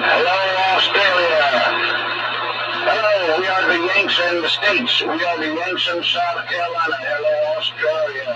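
lifted voice, hailing far-off listeners; playful hail. Pretend. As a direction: send a playful hello across the world. Hailing Australia playfully over the radio.

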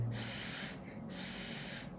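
S hissed with a wide smile; smiling s. Shown as a demonstration. Teacher contrasting the smiling S for learners. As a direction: spread the lips and hiss S. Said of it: "S cười, mình sẽ cười lên".

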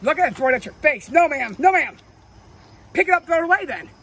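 fed-up scolding over the spilled creamer; angry scolding. Real, not acted. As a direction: tell him off loudly. Angry after throwing the creamer.

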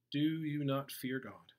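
slow, emphatic mild rebuke; rebuking. Acted. One criminal to the other, mildly rebuking him. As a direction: raise the voice slightly and slow down to reprove. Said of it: "But the other rebuked him".

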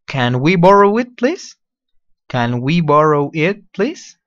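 slow polite request. Shown as a demonstration. Teacher showing how to ask to borrow politely. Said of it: "lo dices así".

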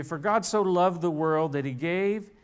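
scripture reading. Shown as a demonstration. Preacher reading John 3:16 aloud to the congregation, measured. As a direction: read it out as holy scripture. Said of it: "let me just read it to you".

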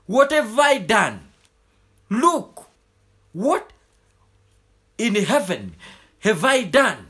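wondering aloud in short, spaced phrases; marvelling wonder. Acted. Preacher voices God admiring his new creation, marvelling. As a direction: act out a maker amazed at his work, pausing between phrases. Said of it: "he sat there and marveled and wondered".

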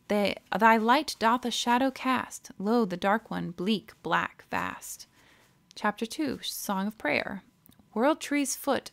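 measured, recited verse with weight; poem reading. Acted. Streamer reads the game's book poems aloud in a solemn recital. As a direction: read it like an old solemn song.

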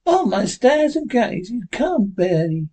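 an amazed townswoman gushing; Abby's voice. Acted.

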